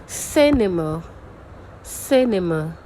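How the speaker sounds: "cinema" with a strong, falling first syllable; teacher modelling front stress in "cinema". Shown as a demonstration. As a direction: punch the start of "cinema", let the rest drop. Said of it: "let's try to pronounce these words and find out where our stress is".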